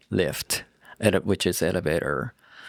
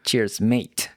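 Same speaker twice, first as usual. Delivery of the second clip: British cheers mate. Shown as a demonstration. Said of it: "British people say".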